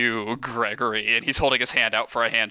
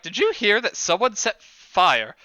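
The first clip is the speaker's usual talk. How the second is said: sly boss taunt; 5 semitones higher than usual. Acted. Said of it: "He's like".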